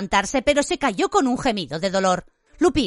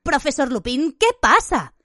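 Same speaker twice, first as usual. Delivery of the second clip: higher, urgent call to the professor; alarmed question pitched up high; raised voice; 6 semitones higher than usual. A narrator's reading. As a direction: interrupt in a raised voice. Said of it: "interrumpió Harry en voz alta".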